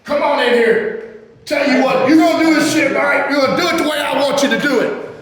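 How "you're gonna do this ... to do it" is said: angry shout. Acted. Boss berating worker.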